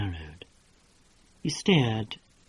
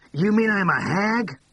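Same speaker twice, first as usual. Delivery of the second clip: candid Tilly; 8 semitones higher, 4 dB louder than usual. A narrator's reading. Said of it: "asked Tilly with candour".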